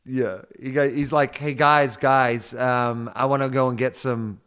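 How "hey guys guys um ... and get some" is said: put-on American accent slipping into Australian slang; Mason Cox. Podcaster mimicking the footballer inviting mates out, American-Australian accent. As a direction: imitate an American picking up bogan Australian phrases. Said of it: "he goes from his American accent".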